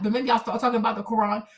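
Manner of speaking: ordinary delivery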